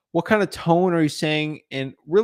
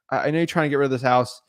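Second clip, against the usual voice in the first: sympathetic question; 2 semitones lower than usual. Acted. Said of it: "be like".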